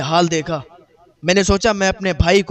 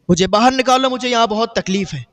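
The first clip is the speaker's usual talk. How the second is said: louder pleading cry; 3 semitones higher than usual. Retold or imitated. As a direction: call out more urgently. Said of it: "میرے بھائی نے مجھے پکارا".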